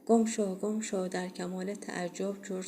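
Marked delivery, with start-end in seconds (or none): 0.0-1.1 a yell, pitch jumping up and much louder; fierce shout. Acted. Jo, waving his arms at the dog, yelling loudly. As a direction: drive the dog away with a yell. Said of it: "با شدت فریاد زد".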